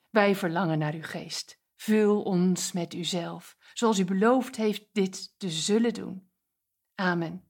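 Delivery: rustig, trager biddend; gebed. Acted. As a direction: bid het zacht en eerbiedig. Leads a prayer. (spreker bidt voor de luisteraars, rustig en eerbiedig)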